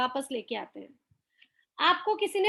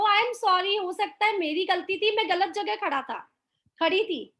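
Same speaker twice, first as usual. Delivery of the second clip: lovingly; 3 semitones higher than usual. Shown as a demonstration. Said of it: "आप इतने प्यार से बोल रहे हो".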